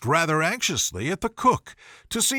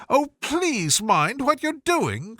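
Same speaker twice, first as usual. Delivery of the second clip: crying out in terror; 8 semitones higher, slower than usual. A narrator's reading. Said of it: "cried Alice".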